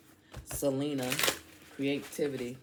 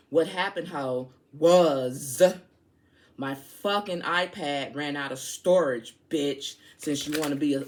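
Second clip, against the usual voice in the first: angry rant; 4 dB louder than usual. Real, not acted. Ranting at a commenter.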